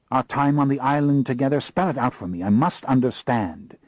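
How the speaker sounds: urgent pleading. Acted. Lestat urgently pleading with David.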